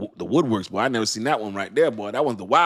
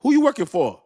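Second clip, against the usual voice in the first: high, loud incredulous question; loud surprised challenge; mock disbelief; 12 semitones higher, 7 dB louder than usual. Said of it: "boy, he like".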